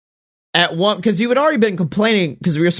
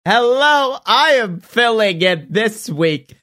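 Ric Flair voice. Pretend. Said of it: "This is the voice you're going to have to hear".

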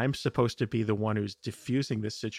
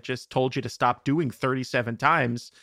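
exasperated parent scolding; 4 dB louder than usual. Retold or imitated. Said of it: "now I have to scream at you".

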